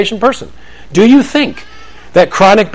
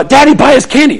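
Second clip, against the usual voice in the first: put-on whiny kid; 7 semitones higher, 3 dB louder than usual. Kids begging.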